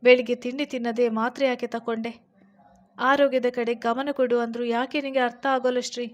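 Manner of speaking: a husband grilling his sick wife, stern and loud; stern questioning. A narrator's reading. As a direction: press her for answers, loud and firm. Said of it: "ಪರೀಕ್ಷಿಸುವ ನೋಟ ನೆಟ್ಟು ಕೇಳಿದ".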